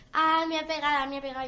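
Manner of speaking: imitated tattling cry, loud then easing; half-hearted hammed-up complaint; mock yell. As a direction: fake being hit. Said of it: "empezaba a gritar".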